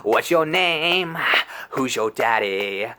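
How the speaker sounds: slow, mock-macho bedroom line; cocky bedroom taunt. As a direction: taunt her like a bad porn star. Cocky bedroom talk acted.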